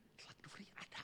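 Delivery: whispered question to wife; berbisik. Retold or imitated. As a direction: bisikkan pertanyaan pelan. (istri berbisik bertanya diam-diam)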